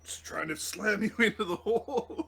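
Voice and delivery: laughing through the line. Real, not acted. GM laughing at the move.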